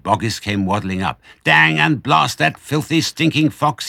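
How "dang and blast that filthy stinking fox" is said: high, loud exasperated outburst; angry cursing. A narrator's reading. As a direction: curse the fox in frustration. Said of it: "cursing the fox with dirty words".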